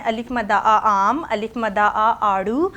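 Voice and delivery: slow sing-song reading drill; teacher drilling the class. Shown as a demonstration. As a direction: chant each word slowly for kids. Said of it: "five times one word को read करना है".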